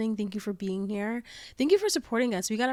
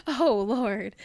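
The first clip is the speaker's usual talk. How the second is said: shocked; 5 dB louder, much slower than usual. Retold or imitated. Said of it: "I was like".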